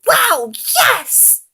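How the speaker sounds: high, loud thrilled voice; delighted. A narrator's reading. Gonzo eagerly accepts Piggy's invitation, high and loud. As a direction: burst with joy. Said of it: "Gonzo grinned".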